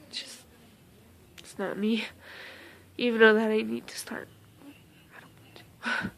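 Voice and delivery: whispering, choked up and holding back tears; barely voiced, fighting off crying; tearful whisper. Real, not acted. Vlogger telling viewers she hates opening up, tearful whisper.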